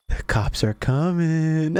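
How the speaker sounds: drawn out, slow and teasing; slow taunting warning. Retold or imitated. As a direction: savour each word, slowly. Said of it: "he starts breaking down".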